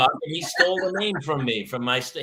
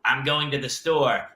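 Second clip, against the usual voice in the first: slow, low storybook reading; reading aloud; 5 semitones lower, slower than usual. Retold or imitated. Parent reading a quote before seeing who speaks, storybook voice. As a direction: read it plainly, like a picture book.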